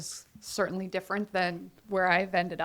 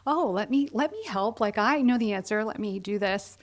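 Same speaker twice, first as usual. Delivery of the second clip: put-on eager obnoxious kid. Student begging to give the teacher the answer, over-eager. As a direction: put on a pushy little know-it-all. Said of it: "obnoxious kid who was like".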